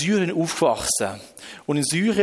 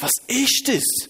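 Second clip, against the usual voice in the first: high, drawn-out startled question; 8 semitones higher, much slower than usual. Retold or imitated. Man who heard a voice, startled question. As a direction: ask it in shock, pitch jumping up. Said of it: "wie so erschrocken gewesen".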